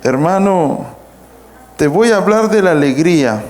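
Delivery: joyless announcement, falling away at the end; incongruent joy demo. Shown as a demonstration. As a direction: speak of joy without conveying it. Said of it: "¿Soy congruente? No".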